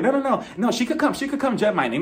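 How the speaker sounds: high-pitched flustered protest; hasty backpedaling. Retold or imitated. Marlo giving in after production threatens her, hastily backpedaling. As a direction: take it all back in a high voice.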